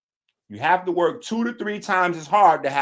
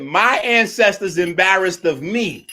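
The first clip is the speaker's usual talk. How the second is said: louder, slow mocking echo; louder mocking quote; 6 dB louder than usual. Streamer mocking Jabari's words, louder and slow. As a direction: drag it out to ridicule him.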